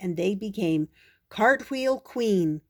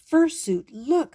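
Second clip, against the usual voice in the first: higher, louder eager call to a pet; 7 semitones higher, 5 dB louder than usual. Acted. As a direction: call out to wake him. Princess calls the wolf.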